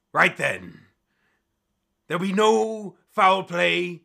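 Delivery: slow, high announcing captain; captain's proclamation. Acted. Captain laying down duel rules, slow and declaiming. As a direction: proclaim the rules to a hushed crowd. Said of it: "and the captain goes".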